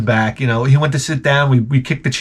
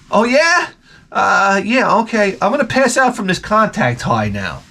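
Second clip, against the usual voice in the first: higher, sarcastic mom voice; mocking mom; 4 semitones higher than usual. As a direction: play the stoned mom, dryly teasing.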